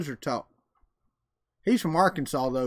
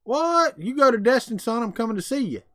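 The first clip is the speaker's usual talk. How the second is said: high, loud "what?" easing down; excited surprise; 6 semitones higher, 4 dB louder than usual. Real, not acted. Hearing a viewer is going to Destin, excited surprise. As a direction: react with delighted surprise, pitched up.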